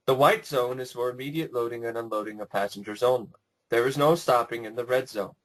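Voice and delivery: announcer voice; calm PA announcement read; airport announcement. Retold or imitated. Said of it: "the woman comes in and starts talking like".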